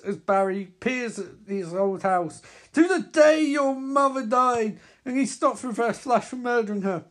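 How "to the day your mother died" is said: higher, louder villain narrator; villain narrating the hero's past; villain narration. Acted. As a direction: ask it like a cruel reminder.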